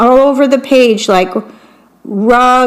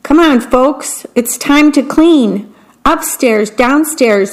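a higher, busy mom voice; bossy mom; 3 semitones higher than usual. Acted. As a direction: hurry the family along. Mother rallies family to clean.

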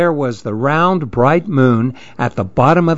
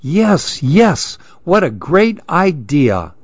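eager shout; 3 semitones higher, slower than usual. Acted. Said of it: "shouted all the others".

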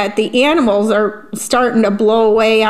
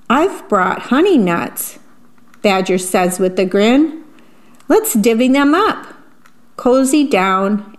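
put-on reading to children. A narrator's reading. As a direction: savour each rhyme for little listeners. Reads picture book aloud.

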